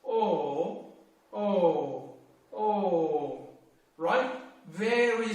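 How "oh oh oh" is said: short clipped O, kept low; short third tone on O; shortened O. Shown as a demonstration. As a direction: cut each O short and low. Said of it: "And shorten the voice".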